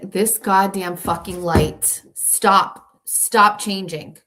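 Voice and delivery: loud, slow, emphatic annoyance; exasperated scolding. Real, not acted. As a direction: snap loudly at the misbehaving light. Scolding a light that keeps changing.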